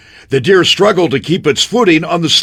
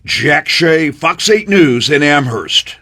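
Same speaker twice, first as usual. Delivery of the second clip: plain; slower than usual. Real, not acted. Reporter sign-off in clip.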